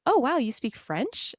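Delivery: high, drawn-out admiring question; impressed. Retold or imitated. Imagined admirer to French speaker, mock impressed. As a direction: imitate someone wowed by a language skill. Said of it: "Is it cooler to be like".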